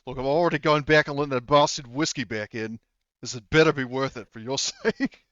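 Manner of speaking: lightly acted intense warning; understated stern, grudging ultimatum; Garvey. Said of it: "gives you, like, this, like, intense stare".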